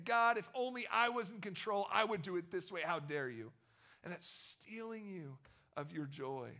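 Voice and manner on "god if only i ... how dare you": prideful demand. Retold or imitated. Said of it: "where you're saying".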